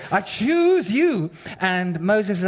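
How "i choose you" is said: God insisting, each word weighted; firm God. Retold or imitated. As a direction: spell it out slowly and firmly. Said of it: "basically God says".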